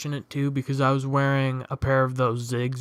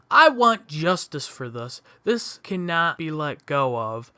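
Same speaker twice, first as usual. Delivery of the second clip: a mild mock yell, a bit louder; retold yelling; 2 semitones higher, 3 dB louder than usual. Angry woman yells at the cop and teens, mild mock yell. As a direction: imitate her demanding justice, half-hearted. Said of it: "She's just yelling at all of us".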